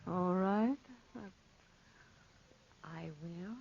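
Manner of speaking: timid, frightened near-whisper; fearful hush. Acted. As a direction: barely dare to say it. Fearful reluctance approaching the panther.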